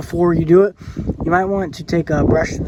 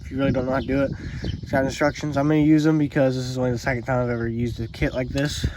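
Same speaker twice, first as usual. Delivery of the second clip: shallow breathing, a little winded. Real, not acted. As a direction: talk while still catching your breath. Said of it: "Sorry, I'm out of breath".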